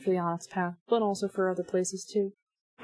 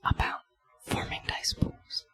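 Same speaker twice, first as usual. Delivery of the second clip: soft unvoiced ASMR whisper; gentle whisper; 7 dB quieter than usual. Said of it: "Whisper gently".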